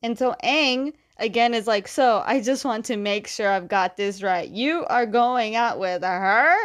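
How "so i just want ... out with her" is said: incredulous check, slowing right down on the question; retold stunned double-check; shocked disbelief. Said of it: "he's so shocked".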